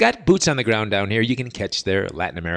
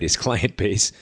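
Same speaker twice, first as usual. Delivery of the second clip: laughing through it; 3 semitones lower than usual. Real, not acted. Host repeating the convict's claim to listeners, laughing. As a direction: chuckle as you repeat it.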